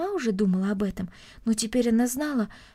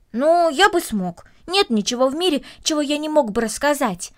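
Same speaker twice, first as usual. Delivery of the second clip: confident boast; 4 semitones higher, 4 dB louder than usual. Acted. Boy claiming he could tell anything, confident. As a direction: declare it with boyish assurance.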